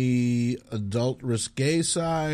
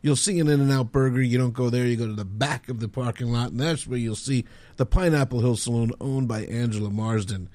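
ad read. Acted. Mock ad for local bar.

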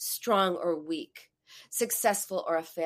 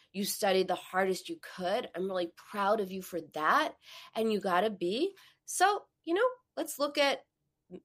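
gentle, encouraging parent voice; supportive parent. Retold or imitated. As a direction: ease the child's worry kindly. Supportive parent, contrasting take.

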